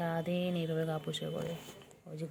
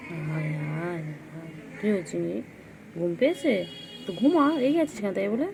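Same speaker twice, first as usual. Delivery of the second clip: loud scolding; 4 dB louder than usual. Real, not acted. Owner fusses at her cat Chingri for swatting, loud. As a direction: scold a cranky pet out loud.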